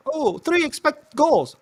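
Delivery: sarcastic high mock, drawn out. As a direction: spot een xG-fan spottend na. Mocking xG fans.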